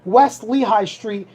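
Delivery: each word laid out slowly for listeners to write down; slow address read. Shown as a demonstration. Host giving a sponsor's address to listeners, slow and deliberate. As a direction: spell the address out slowly and clearly.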